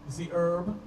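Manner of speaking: low, slow Jamaican roots man preaching. Retold or imitated. Roots man preaches to party guests, slow low Jamaican accent. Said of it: "he'll be like".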